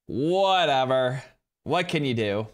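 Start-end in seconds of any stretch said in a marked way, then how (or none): 0.1-1.2 slow, louder, dismissive whatever; drawn-out whatever. Real, not acted. Streamer shrugging off a TikTok ban, slow and loud. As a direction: stretch the word out, brushing it off.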